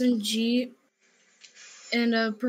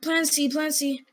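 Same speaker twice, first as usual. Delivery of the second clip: urgent shouting; 4 semitones higher, 4 dB louder than usual. Real, not acted. Panicked calling in firefight.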